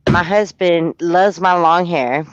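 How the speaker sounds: ordinary talk, nothing marked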